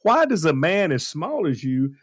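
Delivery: Arnold's cheeky question in a hammed-up Austrian accent; Arnold's line. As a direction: drawl it out in Arnold's Austrian accent, half shouting. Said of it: "Arnold asks him".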